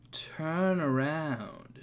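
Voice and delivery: slow, breathy, threatening whisper; soft and slow, fading into a whisper; menacing whisper. Acted. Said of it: "That sounds menacingly, menacing".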